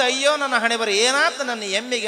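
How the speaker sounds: high-pitched lament, mildly acted; storyteller's light mock wail. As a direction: lament your fate as a distraught mother. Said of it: "ಹಣಿ ಹಣಿ ಎದಿ ಎದಿ ಬಡ್ಕೊಂಡು ಅಳುವಾಗ".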